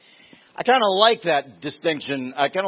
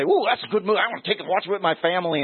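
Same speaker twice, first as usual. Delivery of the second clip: mock eager viewer; 3 semitones higher, much faster than usual. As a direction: lightly parody a naive fan. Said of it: "Don't say".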